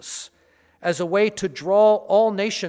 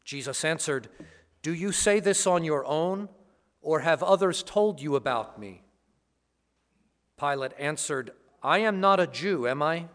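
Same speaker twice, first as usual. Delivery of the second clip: Gospel reading. Acted. Gospel proclamation at Mass.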